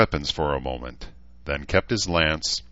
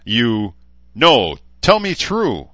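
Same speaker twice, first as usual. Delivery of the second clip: high, loud jeering insult; mocking taunt; 7 semitones higher, 4 dB louder than usual. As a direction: needle him, savour each insult. Knight's insulting taunt at orc.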